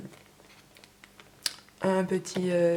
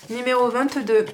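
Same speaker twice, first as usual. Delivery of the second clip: annonce forte du lot; 4 semitones higher, 6 dB louder than usual. Real, not acted.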